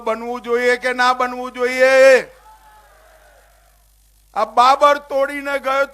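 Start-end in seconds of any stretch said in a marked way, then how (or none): 0.1-2.3 louder repeat. Real, not acted. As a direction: question repeated louder to the crowd. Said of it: "જોરથી બોલો".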